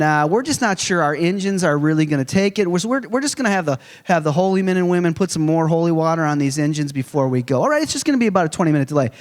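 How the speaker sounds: lightly voiced casual pilot on the intercom; a hint of an airline captain's PA voice; pilot announcement. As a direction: play a laid-back pilot breaking bad news, the end rushed fast. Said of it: "pilot ever got on the microphone".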